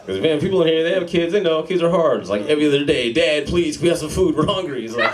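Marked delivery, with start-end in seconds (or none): 3.1-4.8 lightly voiced hungry child begging; pleading kid. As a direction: beg Dad in a higher kid voice. Kid begs dad for food.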